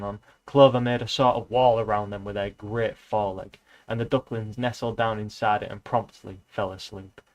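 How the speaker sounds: reading a novel aloud, even and steady; lightly voiced book reading, just telling the tale; story narration. Reading Animal Farm aloud to viewers, in an even storytelling voice.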